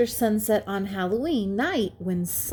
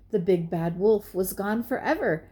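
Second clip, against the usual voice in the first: ordinary delivery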